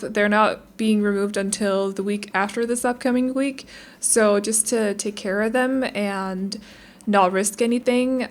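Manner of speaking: careful speech around mouth stitches; talking with mouth stitches. Real, not acted. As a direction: speak gently, stitches in mouth. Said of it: "I'm just gonna talk a little bit more calmly than usual".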